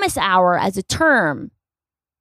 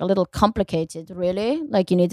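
quiet, muttered hint of a German accent; lightly put-on German accent, under the breath; mock German woman; 4 dB quieter than usual. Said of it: "I'm making her German".

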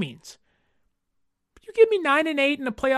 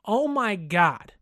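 exasperated fan; slower than usual. Retold or imitated. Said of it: "that you go".

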